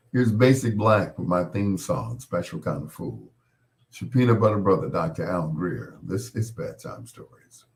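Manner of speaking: easy late-night DJ song intro; radio DJ announcer. Acted.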